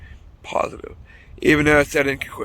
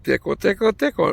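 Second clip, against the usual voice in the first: lightly mimicked nurse, raised pitch; a playful higher sing-out, only mildly put on; imitating nurse; 5 semitones higher than usual. Nurse swabbing his nose, mildly imitated tickle-tickle voice. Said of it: "fucking freaks me out when she says that".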